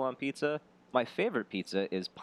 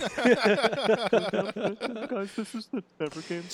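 grand announcer voice, higher; 10 semitones higher, 4 dB louder than usual. Shown as a demonstration. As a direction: announce it like a show host. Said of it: "So humble about his craft".

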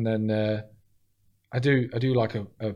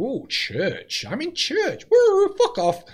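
Tourette's outburst; 14 semitones higher, much slower than usual. Retold or imitated. Comic imitates the woman in the crowd calling out, high mock cries. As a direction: imitate her sudden high calls. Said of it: "I heard her go".

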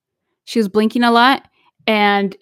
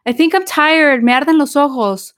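put-on tired child; 4 semitones higher than usual. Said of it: "she's like".

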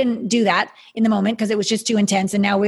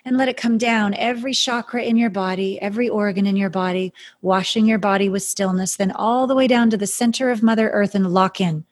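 airy breathy mystical healer. Acted. Guided stillness meditation.

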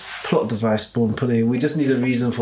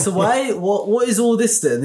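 weirded out; 8 semitones higher, slower than usual. Real, not acted. Confused by the plot twist.

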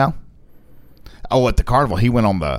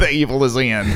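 robot voice. Pretend. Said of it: "that's how a computer would say it".

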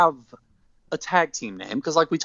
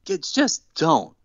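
begging. Retold or imitated. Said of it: "He's literally begging him".

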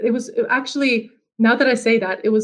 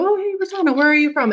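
breezy, higher-pitched mock greeting; casual friendly question; 6 semitones higher, faster than usual. Someone casually asking where she's from, breezy. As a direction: lightly imitate someone's chirpy small-talk opener.

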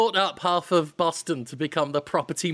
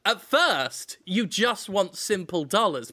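normal talking voice

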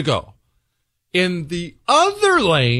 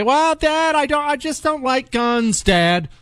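high, put-on whiny child voice; child whining to father about guns; whiny kid; 10 semitones higher than usual. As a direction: mimic a kid making excuses to Dad. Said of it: "any excuse for someone to say".

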